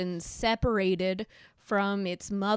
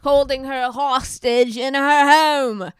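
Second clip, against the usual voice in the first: laughing news read; 3 semitones higher, 5 dB louder than usual. Pretend. Giggly mock news read.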